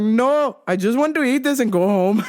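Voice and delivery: mock exasperated dad voice; fed-up dad. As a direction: imitate dad's put-out refusal. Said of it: "He's like".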